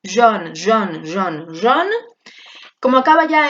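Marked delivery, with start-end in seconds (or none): 0.0-1.9 jaune repeated the same each time, lower; repeated model word. Shown as a demonstration. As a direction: drill jaune identically. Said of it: "Vamos a pronunciarlo todo igual". (repetición de jaune igual)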